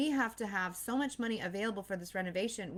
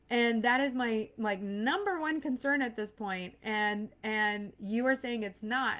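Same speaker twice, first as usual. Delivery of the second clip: louder and higher, arguing back; wife arguing back at husband, louder and higher; heated retort; 3 semitones higher, 4 dB louder than usual. Retold or imitated. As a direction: snap back in exasperation. Retold argument with husband.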